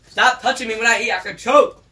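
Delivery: high, loud complaint; annoyed protest. Real, not acted. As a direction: snap back, fed up. Son annoyed while eating.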